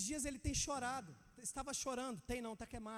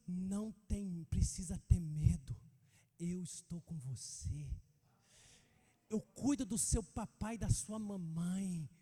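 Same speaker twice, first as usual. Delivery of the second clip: lower, slow, gentle reassurance; lightly voiced Jesus comforting a child; reassuring Jesus voice; 4 semitones lower, slower than usual. Jesus speaking to the child, retold.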